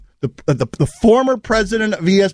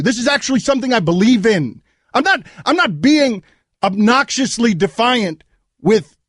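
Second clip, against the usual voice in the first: shaking with anger. Real, not acted. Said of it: "I have never been this angry on the air".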